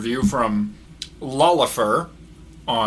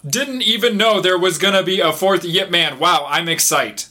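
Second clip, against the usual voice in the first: mock excitement; 7 semitones higher, 4 dB louder than usual. Reading unhinged all-caps review.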